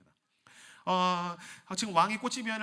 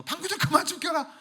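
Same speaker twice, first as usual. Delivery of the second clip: fed-up wife, higher, laughing; 13 semitones higher, 8 dB louder than usual. Acted.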